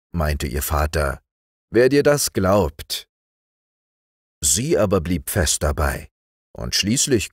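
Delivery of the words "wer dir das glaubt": doubting father. A narrator's reading. Father teasingly doubts his daughter.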